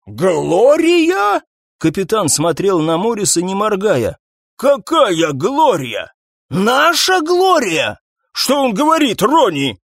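high, slow incredulous questions; can't believe what he hears; stunned disbelief. Acted. Captain stunned by news about Gloria, high and disbelieving.

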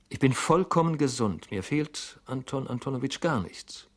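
resolute. A narrator's reading. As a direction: insist firmly on being fine. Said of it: "fügte er entschlossen hinzu".

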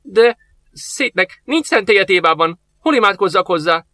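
put-on old master asking the soldier, worried; anxious old master. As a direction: ask worriedly where to pray.

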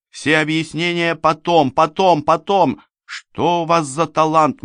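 high, urgent, exasperated voice; impatient command. A narrator's reading. Rescuer scolding the stumbling narrator as they flee, impatient command. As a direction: cut him off, high and impatient. Rescuer snaps at him while fleeing.

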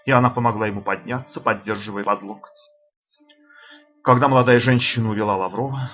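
ordinary delivery

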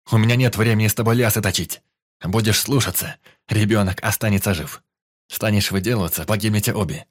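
menacing threat. Acted. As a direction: threaten her coldly. Kidnapper threatens the mother.

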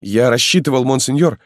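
a loyal lad pressing his lord to hurry; eager young peasant. Acted. Halmalo urges the marquis to flee, high and eager.

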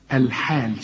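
الحال with a thin open haa; light haa. Shown as a demonstration. Teacher compares it to a familiar word, light haa in الحال. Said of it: "زي تقول الحال".

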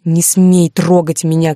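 loud slow shout. Acted. Heroine fights free of Alexander, loud slowed shout. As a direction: push him off with a yell. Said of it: "кричу я".

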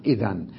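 إذن stopped on a vowelless n; pause on nun. Shown as a demonstration. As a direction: say إذن ending on a clear n. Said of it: "تبقى نون ساكنة".

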